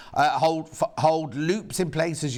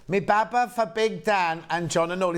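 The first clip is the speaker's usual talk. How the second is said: put-on Bristol accent; 2 semitones higher than usual. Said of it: "Is that Bristol?".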